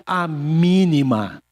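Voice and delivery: "mínima" drawn out with emphasis; stress on mínima. Real, not acted. Preacher recounting a snub, stress on "mínima". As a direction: lean on "mínima".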